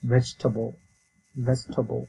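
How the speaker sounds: "ভেজিটেবল" in three syllables, "VEJ-tuh-bol"; correct pronunciation. Shown as a demonstration. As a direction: repeat "ভেজিটেবল" as a model, no "table" ending. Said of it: "এটার উচ্চারণ হবে".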